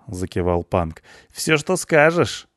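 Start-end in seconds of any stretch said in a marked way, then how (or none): 1.3-2.5 high, slow devoted agreement; eager punk. A narrator's reading. Punk agreeing to obey the blonde, eager. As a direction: draw out your willing consent, pitched high.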